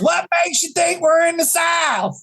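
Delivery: mock the radio host's outrage; radio lady firing back, high and affronted; indignant. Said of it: "And she goes".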